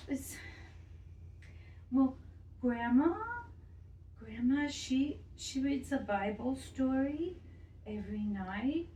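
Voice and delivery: a lightly voiced little girl confiding in her doll; a child telling a secret to her doll; lonely little girl. Child Denise talks to doll.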